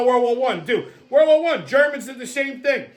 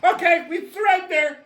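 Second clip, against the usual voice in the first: much higher, shouted surrender; mock Danish surrender; 9 semitones higher than usual. Danish army giving up, high shouted mock surrender. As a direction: yelp it out as a cowering soldier. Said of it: "they go".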